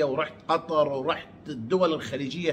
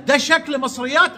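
higher, puzzled rising question; mock surprised question; 6 semitones higher than usual. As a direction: imitate his disbelief, ending up. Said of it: "يقول لك". (تقليد سؤال مستغرب)

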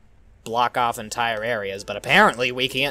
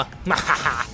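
short gloating ha-ha-ha; put-on gloating laugh; mock villain laugh; 2 semitones higher than usual. Gloating after attacking in game.

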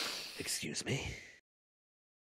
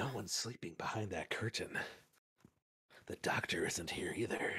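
hushed whisper; 4 semitones lower, 6 dB quieter than usual. Acted. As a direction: breathe it in a whisper. Whispering in empty infirmary.

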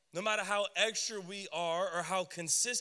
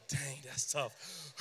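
mock dismay; 7 semitones lower, 7 dB quieter, much slower than usual. No hands raised, mock dismay.

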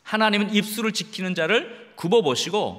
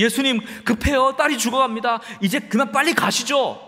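lightly acted urgent father, pitch raised; 야이로 흉내; 4 semitones higher than usual. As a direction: press Jesus to hurry, a touch of urgency. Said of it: "야이로가 좀 그렇게 얘기할 수 있지 않겠어요". (다급한 아버지를 살짝 흉내 내듯 높은 목소리로)

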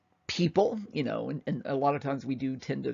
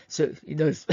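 hand over mouth; 3 dB louder than usual. Real, not acted. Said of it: "I just muffled my voice, gotta put my hand over my mouth".

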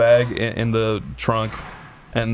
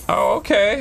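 high, polite imitated phone voice; nice lady; 8 semitones higher than usual. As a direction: imitate an obliging woman on the phone. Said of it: "A nice lady answers".

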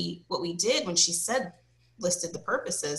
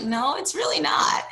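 whisper; 8 semitones higher than usual. Retold or imitated. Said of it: "And I'm like".

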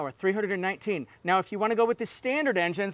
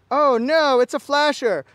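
louder, higher mock panic; playful, raised-voice fake shock; mock alarm; 5 semitones higher, 5 dB louder than usual. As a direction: cry out in pretend alarm. Joking alarm at the flashers.

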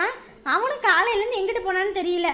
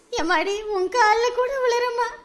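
tearful pleading; 4 semitones higher than usual. Acted. Desperate mother begging the girl for news, tearful plea. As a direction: beg her with tears.

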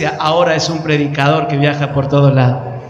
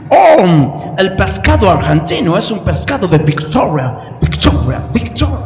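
gringo preacher voice; 4 dB louder than usual. Retold or imitated. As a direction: let victoria echo away. Gringo praising the food. (gringo que repite victoria, cada vez más bajo)

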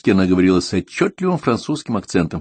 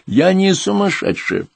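put-on higher, slow old woman's indignant denial; creaky old voice; 13 semitones higher, 3 dB louder, slower than usual. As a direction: protest like an offended old lady, slowly. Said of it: "своим скрипучим голосом".

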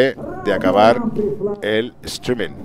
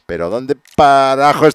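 loud, raised-pitch cursing; exasperated shout; 4 semitones higher, 8 dB louder, slower than usual. Real, not acted. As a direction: explode in frustration over a lost item. Cannot find the drone.

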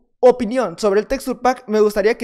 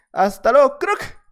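louder goodbye, crack sung up high; mocking farewell; 4 semitones higher, 4 dB louder, slower than usual. Real, not acted. Gamer taunting the player he just beat, mocking high crack. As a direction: throw the goodbye at him, crack squeaked high. Farewell to killed opponent, repeated.

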